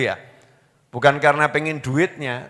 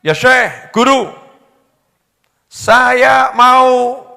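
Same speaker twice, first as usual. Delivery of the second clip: pleading wife; 9 semitones higher, 7 dB louder, much slower than usual. Retold or imitated. Wife pleading to Imam Junaid.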